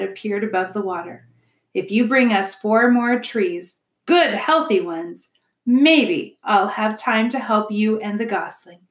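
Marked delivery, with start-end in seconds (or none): 1.7-8.8 lightly voiced gruff-mannered dealmaker; a hint of a reluctant beaver; bargaining beaver. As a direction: set terms grudgingly, dwelling on the conditions. Mister Beaver bargains with robot.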